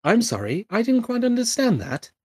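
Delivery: high-pitched mock apology; sugary British assistant impression; smarmy British assistant. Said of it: "smarmy British people doing the voices".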